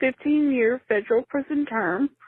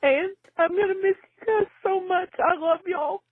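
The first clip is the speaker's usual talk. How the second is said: catching breath midword; 5 semitones higher than usual. Real, not acted. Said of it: "I'm crying".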